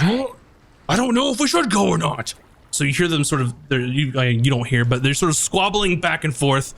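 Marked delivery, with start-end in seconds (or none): 0.0-2.3 high, quick dithering voice; hesitant crewmate. Acted. Crewmate unsure about going, high dithering voice. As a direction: waver like you can't decide. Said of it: "And then the other goes".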